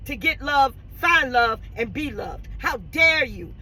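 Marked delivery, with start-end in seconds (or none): 2.6-3.5 sharp rebuke shouted at the daughter; angry shout. Real, not acted. Preacher scolding meddling daughters, shouting angrily. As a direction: throw it at her hard.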